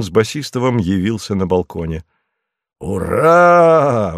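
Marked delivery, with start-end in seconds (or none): 2.8-4.1 hearty cheer, higher; joyful hurrah. A narrator's reading. The husband arrives home with good news, a joyful cheer. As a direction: cheer as you hug her. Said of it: "воскликнул он и обнял жену".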